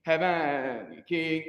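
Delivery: slow "Heavenly King", heavenly as HEV-nee; teacher models "Heavenly King" slowly; heavenly in two syllables. Shown as a demonstration. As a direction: drag "Heavenly King" with heavenly squeezed short. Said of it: "it's almost like two syllables".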